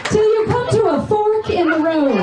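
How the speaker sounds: slow, calm mock sat-nav directions; lightly imitated navigation voice, slowed; GPS voice in bed. Comic directs her man in bed like the GPS lady. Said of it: "the right tone of voice".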